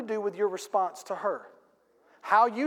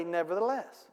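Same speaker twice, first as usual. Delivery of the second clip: soft nevertheless; 3 semitones lower, 6 dB quieter than usual. Shown as a demonstration. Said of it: "It's okay to say".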